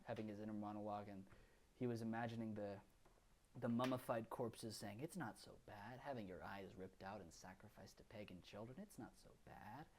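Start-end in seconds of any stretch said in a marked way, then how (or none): 5.0-9.9 softer, eerie dead voices; soothing the living from the grave; eerie corpse voice. Retold or imitated. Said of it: "Very eerie".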